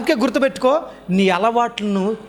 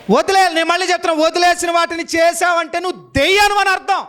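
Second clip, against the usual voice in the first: forceful preaching; 6 semitones higher than usual. Real, not acted. Preacher hammering the point home.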